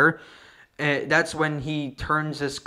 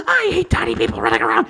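lower, fast grumble; lightly voiced husband griping; gruff husband quote; 5 semitones lower, 3 dB louder, faster than usual. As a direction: toss it off like a grumpy husband. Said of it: "he's like".

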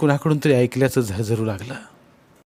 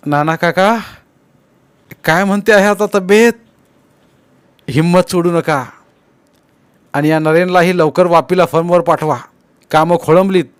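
loud, high, hearty reassurance; encouraging; 6 semitones higher, 7 dB louder than usual. A narrator's reading. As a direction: buck up a sick elder with a lively, raised voice. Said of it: "धीर देत म्हणाला".

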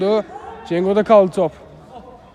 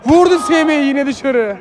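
excited commentary; 5 semitones higher than usual. Real, not acted. Big chance missed, commentary.

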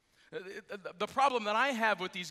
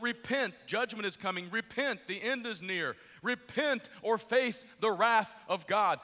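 imitated doomsday warning; 2 semitones higher than usual. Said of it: "to warn the world that".

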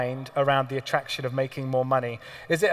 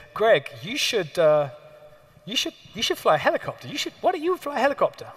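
eager urging; 5 semitones higher than usual. Retold or imitated. Trader urging him.

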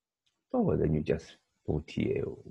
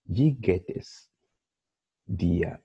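slow model question; slower than usual. Shown as a demonstration. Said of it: "somebody greets you in German".

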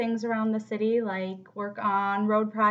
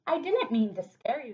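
Froggy with a grin. Acted. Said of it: "said Froggy with a grin".

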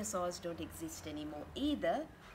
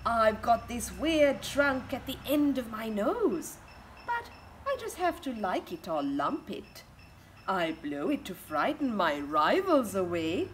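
a hint of a boastful seal, louder; louder storybook seal voice; lightly voiced elephant seal; 6 dB louder, slower than usual. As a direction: trumpet it out to scare rivals. Elephant seal speaks in book.

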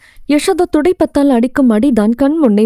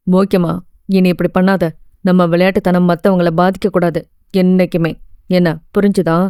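gentle, lower lecturer voice; a lightly voiced kind teacher, softened; 4 semitones lower than usual. Lecturer gently advising the student not to repeat it, kind voice. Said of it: "என்றான் கனிவான குரலில்".

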